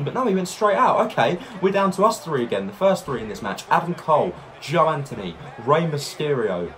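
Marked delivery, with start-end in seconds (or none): none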